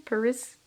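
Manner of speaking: "Paris" as puh-RISS, rising unsurely; trying a pronunciation. Shown as a demonstration. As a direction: test out "Paris" with an unstressed first vowel. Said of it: "I don't know how to say that".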